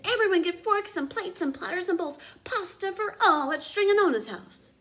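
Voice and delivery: loud, high call to the whole square; shouted invitation. A narrator's reading. Big Anthony on the fountain calling townspeople, shouting. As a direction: bellow it across the town square. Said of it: "jumped on the fountain and shouted".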